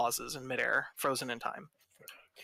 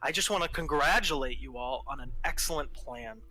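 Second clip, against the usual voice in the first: condescending villain reassurance. Acted. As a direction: soothe them with mock kindness. Villain soothes and praises the party.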